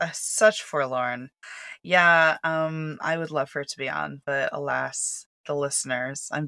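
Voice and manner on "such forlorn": slow, mock sorrow; mock forlorn.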